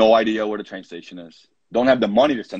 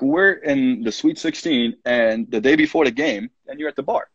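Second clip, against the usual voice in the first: incredulous scolding; 5 semitones higher than usual. Retold or imitated. Coach scolding players caught at the bar, incredulous. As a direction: pitch up in disbelief at the players.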